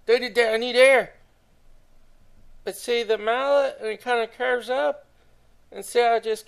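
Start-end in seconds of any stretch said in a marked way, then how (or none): 0.1-1.1 louder, slower, higher and breathless; desperate plea for air. Real, not acted. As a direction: beg for air, drawing it out. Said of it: "I'm running out of breath".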